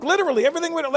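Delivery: ordinary delivery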